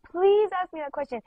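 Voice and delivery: retold desperate plea; insistent begging. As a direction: plead with real urgency on "please". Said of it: "begging me, like".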